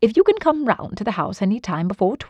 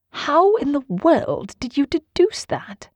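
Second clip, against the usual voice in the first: higher, slower, amazed question; astonished; 7 semitones higher, slower than usual. A narrator's reading. Watson asks Holmes how he deduced it, astonished. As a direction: ask it in drawn-out amazement.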